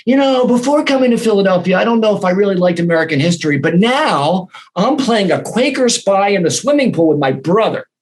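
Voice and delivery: imitating a young girl writing a fan email, with a childlike lilt; little girl's voice. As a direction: read the email like an excited little kid. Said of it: "She said".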